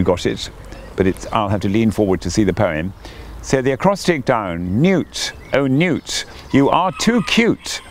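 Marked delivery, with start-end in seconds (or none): 4.8-7.8 lightly voiced gushing coot, pitched high; emoting coot. A narrator's reading. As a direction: gush over the newt, high and sweet. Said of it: "Emoted the coot".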